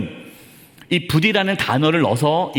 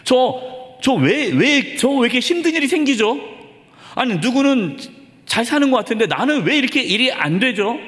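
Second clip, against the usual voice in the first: higher-pitched mock plea to God; acted honest complaint; 5 semitones higher than usual. Preacher voices a struggling believer questioning God, acted complaint. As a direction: lightly act out a higher, frustrated appeal. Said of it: "정직하게 자신의 속마음을 얘기하라는 거예요".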